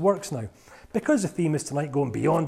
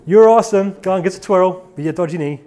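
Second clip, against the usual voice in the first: louder, cheering hype voice; 3 semitones higher, 13 dB louder than usual. Acted. Presenter voicing self-concept cheering a volunteer, loud hype. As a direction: pump him up like a cheerleader.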